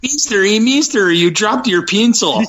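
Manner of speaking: high-pitched mock Cheech and Chong accent. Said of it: "more like a Cheech and Chong impersonation".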